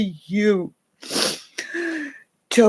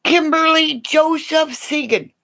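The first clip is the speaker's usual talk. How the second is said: mock mom yell; 6 semitones higher than usual. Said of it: "this is what you heard in the neighborhood".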